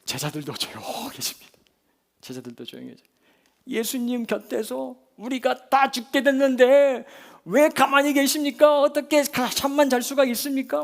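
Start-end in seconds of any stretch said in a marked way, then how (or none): 3.7-10.8 loud, high-pitched aggrieved complaint; grumbling protest. Acted. Disciples grumbling at Jesus asleep, high loud protest. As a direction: wail the reproach at full voice. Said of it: "막 궁시렁궁시렁 대던 제자들도".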